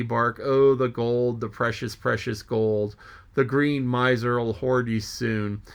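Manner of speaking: full, theatrical reading of a sea monologue; dramatic story reading. Acted. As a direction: read it like an old sailor muttering to himself. Reads Moby-Dick chapter aloud.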